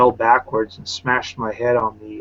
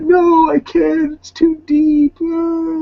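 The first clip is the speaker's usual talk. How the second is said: imitating a whimpering man, much higher and louder, slow; mock whining refusal; 5 dB louder, much slower than usual. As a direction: wail it like a helpless crybaby. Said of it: "But he's like".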